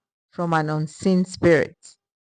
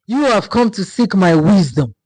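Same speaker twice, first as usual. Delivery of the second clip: louder, booming forest spirit voice; grand spirit voice, louder and resonant; deep rumbling spirit; 4 dB louder than usual. A narrator's reading. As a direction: speak as an ancient spirit of the forest. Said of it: "his voice deep and rumbling like thunder".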